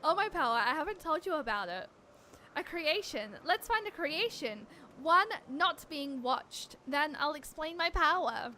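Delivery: a hint of an earnest adventurer; lightly voiced heroine. Character hints at her power, lightly voiced. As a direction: play the hero plainly, a touch grand.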